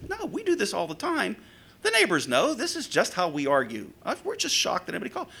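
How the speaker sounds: imitated protesting couple. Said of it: "they're both saying the same thing".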